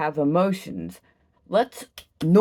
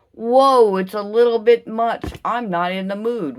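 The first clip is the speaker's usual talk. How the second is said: mock put-off listener; 4 semitones higher, 5 dB louder than usual. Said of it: "imitating an annoyed listener".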